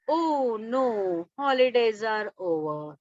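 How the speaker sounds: mildly sad, slow and sinking. Acted. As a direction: act out a boy's gentle dismay. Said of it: "sad आहे".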